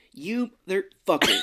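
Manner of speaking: high, loud hammed-up voiceover; mock censored dub. Joke about censoring the wrong word, hammed-up dub voice. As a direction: punch it like a silly TV dub. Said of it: "censored the wrong word".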